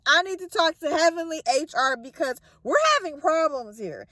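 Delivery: fed up, demanding answers; upset. Retold or imitated. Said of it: "Job get upset".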